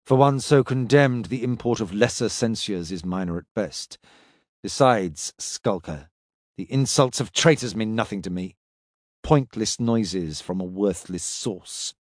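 low, measured, contemptuous; cold stern warrior. Acted. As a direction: speak down with cold disdain.

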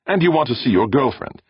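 a quick irritated jab; snapping. A narrator's reading. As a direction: snap it back in anger. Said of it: "Brandon snapped".

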